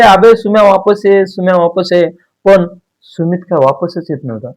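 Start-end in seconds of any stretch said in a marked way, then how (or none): 0.0-2.1 a mild call across the river. Acted. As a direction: call him back from the bank. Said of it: "हे इथंच ओरडू लागले".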